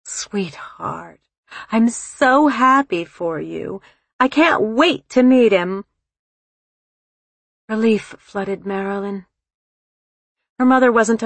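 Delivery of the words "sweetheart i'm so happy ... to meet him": sudden alertness. Acted. Mother congratulating engaged daughter on the phone, suddenly alert delight. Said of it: "A sudden alertness tinted her mother's voice".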